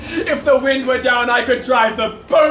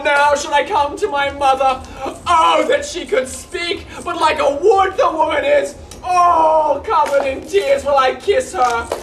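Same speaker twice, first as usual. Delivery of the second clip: hammed-up lament. Hammed farewell to mother.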